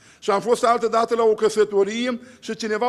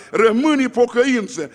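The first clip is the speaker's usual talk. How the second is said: quoted hymn line; 6 dB louder than usual. Retold or imitated. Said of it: "o cântați cântarea".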